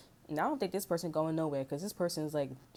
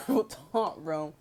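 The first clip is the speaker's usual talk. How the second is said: laughing; 4 dB louder, much slower than usual. Real, not acted. Telling viewers to keep it real, laughing. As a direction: repeat it through a laugh. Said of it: "I'm just be real talk".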